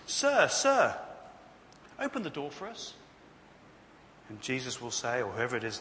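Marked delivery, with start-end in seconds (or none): 0.1-2.9 raised, urgent plea to be let in; pleading. Acted. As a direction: call out high, then ease into a plea. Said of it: "Pleading is ineffective".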